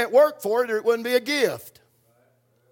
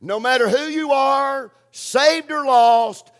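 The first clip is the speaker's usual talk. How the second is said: emphatic point; 3 semitones higher, 5 dB louder, slower than usual. Real, not acted.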